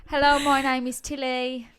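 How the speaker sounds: playful Australian twang; put-on Australian accent. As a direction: greet listeners as a hammy Australian. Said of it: "gonna put on an accent every week".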